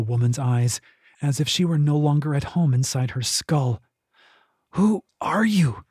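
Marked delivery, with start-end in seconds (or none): 4.7-5.8 slow, strained rasp through pain. Acted. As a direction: force the question out in a rasp. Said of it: "Kyla rasped".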